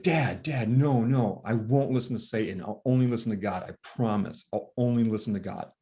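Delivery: put-on a boy vowing earnestly to his dad; emphatic kid. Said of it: "He was really emphatic about this".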